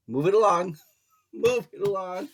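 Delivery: high, loud, teasing send-off; playful shooing. Real, not acted. Reader waving off negative commenters, playful shooing. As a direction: shoo them away with a laugh.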